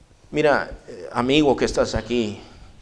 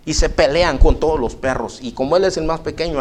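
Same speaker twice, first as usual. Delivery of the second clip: higher, insistent complaint; fed-up man voiced higher; 3 semitones higher than usual. Visitor insists the dog is aggressive, pitched up. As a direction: play him pitched up and insistent.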